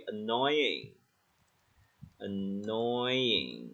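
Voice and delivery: "Annoying" with a clear long "noy"; corrected pronunciation. Shown as a demonstration. Teacher correcting "a nothing" to "Annoying", drawn out. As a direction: stretch out "Annoying" syllable by syllable. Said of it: "A nothing là cái gì?".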